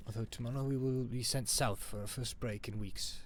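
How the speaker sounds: lightly voiced, amateur French accent; butchered French accent. Soldier writing to Ma from the trenches, rough French accent. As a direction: keep up a rough French accent, evenly read. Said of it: "I'm sorry if I'm butchering your accent".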